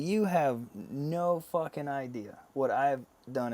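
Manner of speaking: "no fucking idea" drawn out slowly; slow, emphatic "no fucking idea"; retold indignant challenge. Retold confrontation with therapist.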